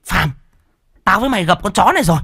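high, shrill sudden realization; excited. Acted. Woman recognizes escaped captive.

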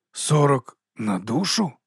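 slow stunned question on "Сорок"; astonished. Acted. Drummer stunned by the pay, slow disbelieving question. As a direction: drag out "Сорок на душу" in disbelief. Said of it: "роззявив рота барабанник".

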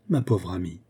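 a tender, understated murmur; gently. A narrator's reading. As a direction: comfort a distraught friend. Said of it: "dit-elle avec douceur".

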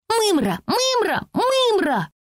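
desperate shout. Acted. Francie screaming back at the girl, desperate high yell. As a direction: hurl the word at her in despair. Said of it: "отчаянно кричала Фрэнси".

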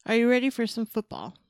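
loud, punchy hype line; hyped announcer call. Acted. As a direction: call it out like a game-day announcer. Reading the email's hype line.

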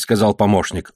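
ordinary delivery, nothing marked

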